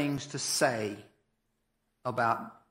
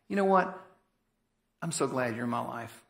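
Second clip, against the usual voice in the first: sincere encouragement; 3 semitones lower than usual. Shown as a demonstration. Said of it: "say it to them".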